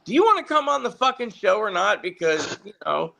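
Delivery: high, impatient producer voice; a hint of an exasperated woman; fed-up producer. Producer who had enough, high and impatient. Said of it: "I guess she had enough".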